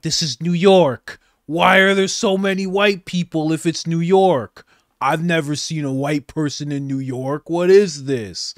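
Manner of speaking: hammed-up shock at the crowd; mocking upset reporter. Vlogger mocking a reporter upset by white people, loud mock outrage. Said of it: "Gail Reed was very upset".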